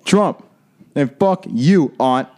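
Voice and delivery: high, punchy mock yell with pauses; imitating Carlos's outburst. Friend re-enacting the birthday blowup, mock yelling. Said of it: "all you hear is Carlos say".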